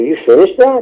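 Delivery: high, rising disbelieving question; surprised disbelief. Retold or imitated. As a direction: ask it like you can't believe it. Retelling surprise at studio.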